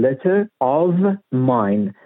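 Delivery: letter of mine word by word, no R linking letter to of; unlinked "letter of mine", final R of letter silent; words said separately. Shown as a demonstration. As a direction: say letter of mine slowly, each word apart. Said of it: "اگه جدا بخوایم بگیم".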